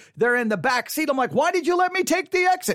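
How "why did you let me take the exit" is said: high, accusing, blaming acted shout. Retelling a car argument with those in the back seat: retelling own yelling. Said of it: "so now I'm yelling at you".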